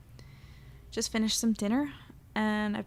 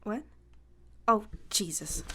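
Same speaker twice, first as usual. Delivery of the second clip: whispered in dismay. Acted. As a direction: breathe it out under your breath. Embarrassed, realizes recorder left on.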